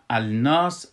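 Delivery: "الناس" said slowly as al-nas, l audible; lam sounded for display. Shown as a demonstration. Teacher pointing out the sun letter lam, sounded as written. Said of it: "امی لامش که است".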